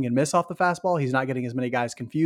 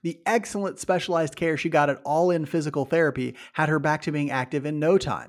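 ad read. Acted. Reads sponsor ad.

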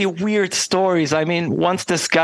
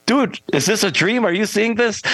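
mildly incredulous, pitched up; retold disbelief; 6 semitones higher than usual. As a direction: imitate yourself asking a bandmate in disbelief. Waking bandmate over bizarre sight.

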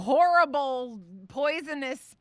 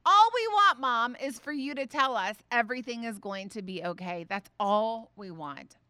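emphatic. Retold or imitated. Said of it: "they both resoundingly".

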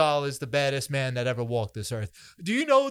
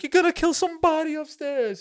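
higher, hammed-up Hollywood Italian accent; mock movie mobster in a Hollywood Italian accent, pitched up; 11 semitones higher than usual. Quoting the bar scene from Out for Justice, in a mock Hollywood Italian accent. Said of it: "the overly Hollywood Italian accents".

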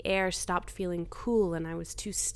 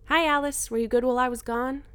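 higher, brighter sing-song greeting; cute voice; 6 semitones higher, 6 dB louder than usual. Acted. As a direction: coo it like talking to a pet. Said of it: "It's not cute anymore".

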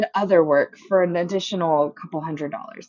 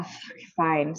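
grudging consent; 3 semitones lower, 10 dB quieter than usual. Retold or imitated. Gives in to brother's call.

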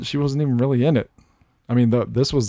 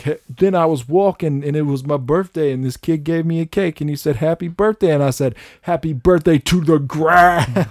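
quoting the movie; 5 semitones higher, 3 dB louder than usual. Retold or imitated. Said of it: "And then he's like".

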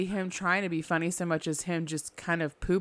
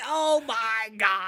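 stunned gasp; 4 semitones higher, much slower than usual. Retold or imitated. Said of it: "he's just like".

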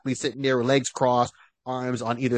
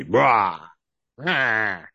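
drawn-out "rah" growled as a joke; half-hearted monster roar; mock villain roar; 3 semitones lower than usual. Mimics the villain's evil noise.

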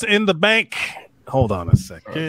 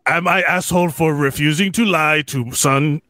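a lightly voiced Bigfoot growl. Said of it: "Can you do it in Bigfoot's voice".

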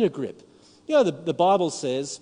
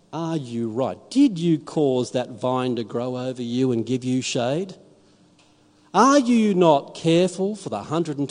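God's gentle rebuke; 4 semitones lower than usual. Acted. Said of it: "the words to Jonah... is this".

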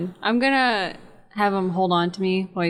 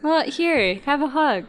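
high-pitched, sweet coaxing; coaxing offer; 7 semitones higher than usual. Acted. Fairy pushing a teddy on a friend, high coaxing. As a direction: coax a reluctant friend, voice pitched up.

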